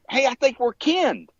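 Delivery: high, cheerful greeting in a lightly put-on voice; imitating the pond owner. Pond owner greeting Shannon, lightly mimicked high and cheerful. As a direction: mimic a friendly guy picking up the phone. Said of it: "He's like, uh".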